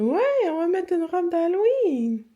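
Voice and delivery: put-on high, loud sing-song to a toddler; high voice to a child. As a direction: answer the little one brightly. Answering the child, higher. (voix haute pour bébé)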